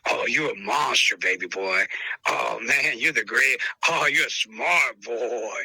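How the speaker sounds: low, gentle praise for a good dog; tender voice praising a dog; soothing dog praise. Shown as a demonstration. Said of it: "that stuff right there".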